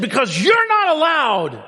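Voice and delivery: slow, high, loud mock rule; imitating Sam. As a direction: lay down the rule like a strict scold. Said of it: "He said".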